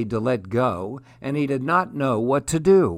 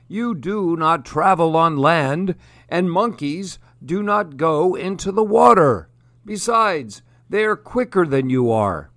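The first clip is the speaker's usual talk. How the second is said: a lightly voiced old crocodile, raised and doubtful; wise old crocodile; 5 semitones higher, 4 dB louder than usual. Old crocodile doubting the young one's plan, lightly voiced. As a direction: question the youngster with mild disbelief.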